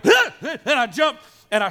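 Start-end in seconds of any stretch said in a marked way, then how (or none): 0.0-0.3 sudden piercing scream of fright, high and loud; startled scream. Retold or imitated. Retelling the fright of a friend hiding in the car, a scream. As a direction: shriek like someone just whispered in your ear in the dark. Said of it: "And I go".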